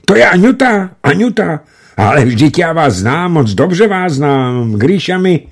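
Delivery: high, loud and excited, almost yelling; joyful shouting. A narrator's reading. Meresjev shouting joyfully into the phone at Aňuta. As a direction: shout it with all his strength. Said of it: "už křičel, co mu síly stačily".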